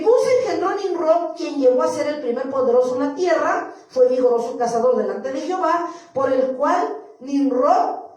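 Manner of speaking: loud, measured Bible reading; scripture reading. Acted. Preacher reading Genesis to the church, declamatory scripture reading. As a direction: proclaim the verse to the room.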